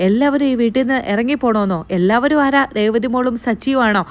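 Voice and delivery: mock-angry grandmother scolding her son. Grandmother scolding her son over the money, angry. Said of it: "എന്നിങ്ങനെ ദേഷ്യപ്പെടുകയാണ്".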